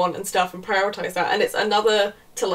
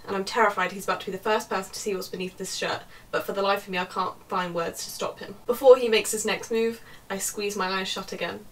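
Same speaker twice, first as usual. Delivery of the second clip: reading aloud; 5 dB quieter than usual. A narrator's reading. Reads the novel aloud.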